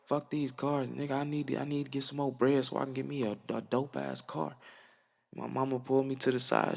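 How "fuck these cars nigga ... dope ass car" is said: mock frustrated rant. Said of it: "I'm mad 'cause I'm like".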